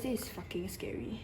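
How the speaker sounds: hushed, voiceless aside to viewers; real scared-excited whisper; nervous whisper. Real, not acted. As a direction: whisper it in suspense. Nervous before revealing the card.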